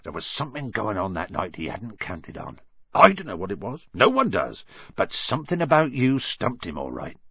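lightly voiced gruff giant; a hint of a big friendly giant; Hagrid voice. Hagrid speaking in story.

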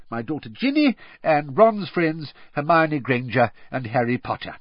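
proud, friendly roll call; grinning introductions. A narrator's reading. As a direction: introduce the family through a grin.

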